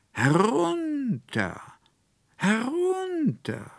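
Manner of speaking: high, loud, calling from far away; a distant spirit calling out; rough voice from afar. Acted. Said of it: "rief wie aus weiter Ferne eine raue, tiefe Stimme".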